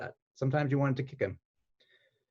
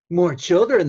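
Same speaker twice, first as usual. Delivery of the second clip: witch screech; 7 semitones higher, 8 dB louder, slower than usual. Acted. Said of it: "the witch screeched in a high-pitched, evil voice".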